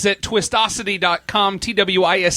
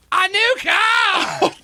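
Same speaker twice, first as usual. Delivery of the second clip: perky game show announcer; 11 semitones higher, much slower than usual. Pretend. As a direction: sell it like a cheesy TV host. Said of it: "overly perky game show announcer".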